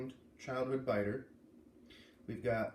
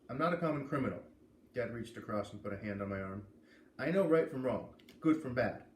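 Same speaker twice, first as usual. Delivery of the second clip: lively first-person read-aloud; story narration. A narrator's reading. A reader opening chapter one for listeners, in lively narration. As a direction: read the chapter to your audience, brightly.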